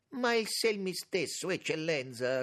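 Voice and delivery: high, loud, indignant comeback; indignant retort. A narrator's reading. Lauriti immediately answers the minister, with indignation. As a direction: jump back in indignantly. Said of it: "con diverso sdegno Lauriti".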